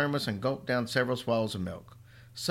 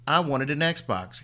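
slow, louder, higher shout; shouting back; 4 semitones higher, 4 dB louder, slower than usual. Acted. Boy shouting back at his mother. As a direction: fling it back at her. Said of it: "Henry shouted back".

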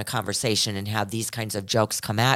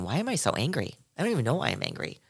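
puzzled inner voice; 5 dB quieter, faster than usual. Retold or imitated. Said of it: "And I'm thinking".

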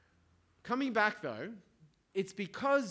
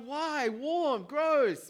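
high, loud incredulous protest; acted disgust; 9 semitones higher, 6 dB louder, much slower than usual. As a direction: recoil in mock disgust, pitched way up. Acting out disgust at warm water.

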